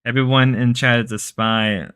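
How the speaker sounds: lazy, barely changed take on Grace; lazy Grace impression. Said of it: "This is probably the laziest impression Grace does".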